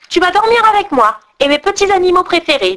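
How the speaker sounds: légèrement voix d'enfant effrontée; petite brigande capricieuse. Acted. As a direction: une gamine autoritaire, à peine jouée. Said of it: "dit-elle". (fille des brigands exigeant Gerda, ton capricieux léger)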